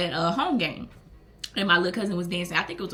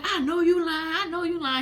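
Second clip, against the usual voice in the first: high-pitched imitation of partner; disbelief, not mad; 8 semitones higher than usual. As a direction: lilt it up high in playful disbelief. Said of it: "He wasn't mad".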